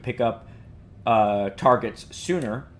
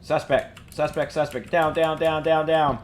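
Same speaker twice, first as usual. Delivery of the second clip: high, urgent police shouts; shouted commands; 5 semitones higher than usual. Acted. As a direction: bark orders at the suspect. Acted clearing, calling out.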